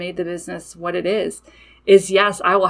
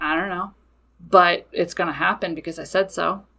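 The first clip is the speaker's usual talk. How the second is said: quieter, lower, dry and unbothered; matter of fact; 3 semitones lower, 3 dB quieter than usual. Retold or imitated. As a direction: shrug it off as plain fact. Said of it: "It's just very matter of fact".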